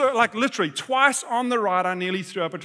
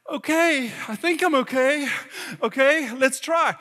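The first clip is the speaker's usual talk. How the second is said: higher, halting self-persuasion; hesitant agreement; 4 semitones higher than usual. Retold or imitated. Dad agreeing to ride when wife won't, hesitant. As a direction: talk yourself into it, a little high.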